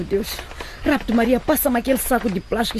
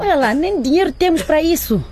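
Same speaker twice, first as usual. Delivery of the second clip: irritated retort; 7 semitones higher than usual. Acted. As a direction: shut her down, fed up. Mother snaps at daughter. (resposta irritada e alta)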